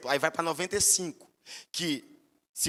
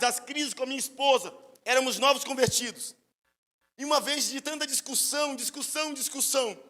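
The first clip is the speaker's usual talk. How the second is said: fervent preaching; 8 semitones higher, 3 dB louder than usual. Real, not acted. Preaching fervour.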